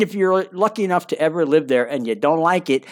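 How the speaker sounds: ordinary delivery, nothing marked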